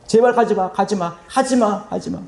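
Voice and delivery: mock wailing plea. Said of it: "또 막 울부짖어요".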